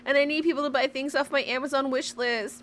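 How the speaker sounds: high pleading mock voice; hammed-up pleading streamer; mock begging. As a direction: beg in a whiny put-on voice. Mocking streamer begging for gifts.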